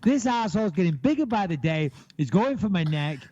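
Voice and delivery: high, pleading little dog voice, high and pleading on Please; mock panicked pet voice; voicing the scared dog. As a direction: beg like a terrified pup. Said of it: "He's like".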